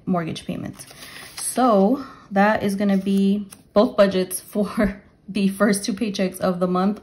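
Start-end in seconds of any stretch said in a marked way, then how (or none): 1.4-7.0 breathless, winded delivery; talking while out of breath. Real, not acted. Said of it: "I'm already out of breath".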